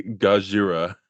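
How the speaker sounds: attempted Japanese-style "Gajira"; Japanese pronunciation attempt. Shown as a demonstration. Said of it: "You try to say Gajira".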